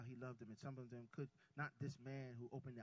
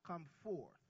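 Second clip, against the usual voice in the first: calling Lazarus out of the tomb, louder; loud summons; 5 semitones higher, 5 dB louder than usual. Retold or imitated. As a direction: raise the voice to call the dead man out. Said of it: "but he said it in a loud voice".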